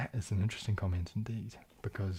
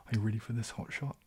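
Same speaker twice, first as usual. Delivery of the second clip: line read in a Kiwi accent. Shown as a demonstration. Streamer showing how horrible the line sounds, Kiwi accent. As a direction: say it with New Zealand vowels, Kiwi accent. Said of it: "say that in my Kiwi accent".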